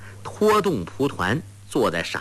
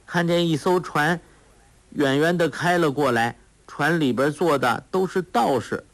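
put-on simple-minded girl; 4 semitones higher than usual. Sha Gu continues.

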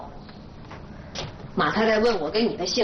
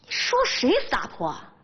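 furious threat; 11 semitones higher, faster than usual. Acted. Wife answering an insult in a quarrel, furious threat. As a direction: pitch climbing high as the threat builds.

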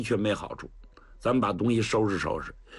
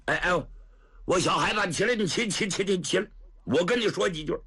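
put-on raised, urgent coaxing of a kneeling boy; lightly voiced woman general; 6 semitones higher than usual. Woman general urging the boy to free prisoners, raised and pressing. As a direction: hurry him up, half pleading half scolding.

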